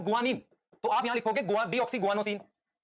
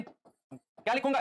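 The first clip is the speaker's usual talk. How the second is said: slow drawn-out prompt; much slower than usual. Shown as a demonstration. Teacher coaxing the class for the answer, slow and rising. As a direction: stretch क्या लिखूंगा out slowly with a rising end.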